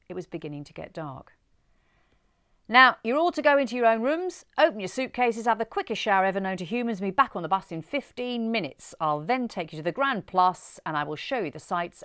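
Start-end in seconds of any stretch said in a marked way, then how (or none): 2.7-12.0 booming tour-guide announcement, much louder; foghorn voice. Acted. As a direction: call it out to the whole coach like a foghorn. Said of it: "Johnny had a voice like a foghorn".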